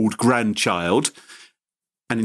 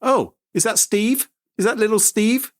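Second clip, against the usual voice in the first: granny voice; 9 semitones higher than usual. Retold or imitated. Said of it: "she said".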